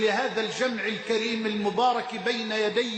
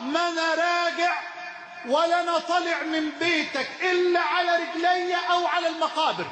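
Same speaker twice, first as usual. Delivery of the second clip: retold shouting; 3 semitones higher than usual. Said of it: "يقول أصرخ وأقول له".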